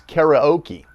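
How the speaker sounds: "karaoke" said the American way, as kair-uh-OH-kee; American mispronunciation. Shown as a demonstration. Narrator showing listeners how Americans mispronounce "karaoke", kair-uh-OH-kee. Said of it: "We Americans commonly mispronounce the word as".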